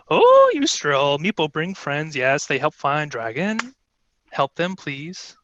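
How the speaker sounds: meek kobold begging the queen for help; lightly voiced kobold. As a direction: plead humbly as a little kobold. Kobold Meepo pleads to queen.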